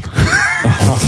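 sharp high laughing burst; a quick shocked laugh; incredulous laugh. Real, not acted. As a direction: laugh out in disbelief. Burst of disbelief.

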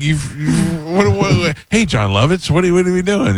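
high, stammering mock protest; sputtering exasperation. Retelling a protest to Lovitz over a photo, sputtering and exasperated.

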